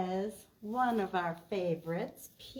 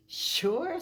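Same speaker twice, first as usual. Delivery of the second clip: higher, louder eager sure; higher, louder cheerful agreement; Pete cheerful; 9 semitones higher, 7 dB louder than usual. Acted. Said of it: "said Pete".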